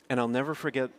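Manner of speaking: ordinary talk, nothing marked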